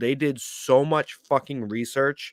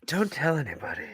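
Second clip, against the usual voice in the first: hushed aside; 3 semitones higher, 6 dB quieter than usual. Pretend. Joking secret after confession.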